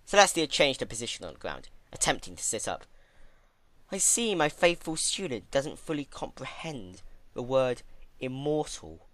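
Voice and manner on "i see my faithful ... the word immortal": stately mentor voice. Acted.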